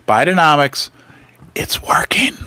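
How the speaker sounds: light Biden voice fading to a whisper; a hint of Biden, breathless ending; Joe Biden impression. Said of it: "this is how he says it".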